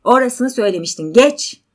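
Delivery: impatient, loud command. Acted. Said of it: "Erkek yüksek sesle".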